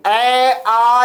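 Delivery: "ए आ" as drawn-out open vowels; pronunciation demo. Shown as a demonstration. Teacher shows students where the breath touches, "ए आ" held out. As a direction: sound out "ए आ" slowly as separate held vowels. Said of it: "ए आ का उच्चारण करोगे".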